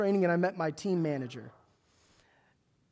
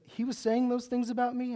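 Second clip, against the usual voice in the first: mildly incredulous, higher-pitched question; surprised question; 5 semitones higher than usual. Retold or imitated. Church leader hearing of gossip about himself, surprised. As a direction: voice rising in mock disbelief.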